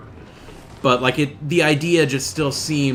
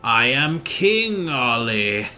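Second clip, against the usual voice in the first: lightly voiced villain. Villain brother threatens his sister, mildly gloating.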